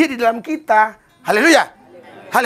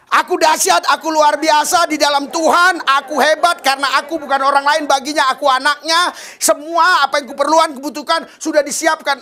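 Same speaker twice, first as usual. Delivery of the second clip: louder, higher, proclaiming with force; bold declared prayer; 5 semitones higher, 4 dB louder than usual. Shown as a demonstration. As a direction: declare it boldly to the congregation. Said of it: "yang kedua ikuti". (doa lantang penuh keyakinan, lebih keras dan tinggi)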